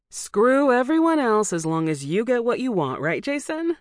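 high, loud, bitter jab; angry accusation. A narrator's reading.

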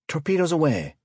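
high, loud call of launch. A narrator's reading. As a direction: shout the report across the bridge. Officer calls out the launch.

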